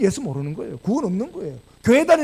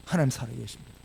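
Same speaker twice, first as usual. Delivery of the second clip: low, hushed declaration; quiet affirmation; 8 semitones lower, 9 dB quieter than usual. Real, not acted. Preacher restating faith to the congregation, low and quiet. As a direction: affirm it softly, letting it settle. Soft repeat after the loud proclamation.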